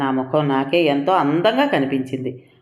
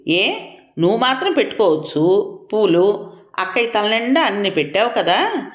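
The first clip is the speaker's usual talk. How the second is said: tearful outburst; 6 semitones higher than usual. A narrator's reading. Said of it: "అని ఏడుస్తూ అనేశాను".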